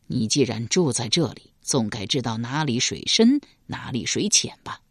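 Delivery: 君王低沉询问. Acted. King questions.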